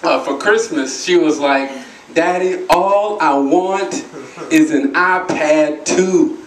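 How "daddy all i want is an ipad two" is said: put-on slow, spaced-out child's request; lightly voiced daughter. Daughter to dad before Christmas, lightly voiced slow asking. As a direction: draw out each part of the wish.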